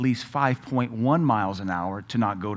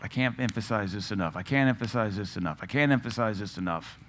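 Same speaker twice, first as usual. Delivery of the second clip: mock repetition; 3 semitones lower, 4 dB quieter than usual. Shown as a demonstration. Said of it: "let me emphasize it again".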